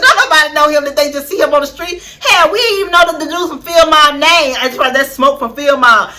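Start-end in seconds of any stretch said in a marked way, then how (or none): 0.0-4.5 laughing. Real, not acted.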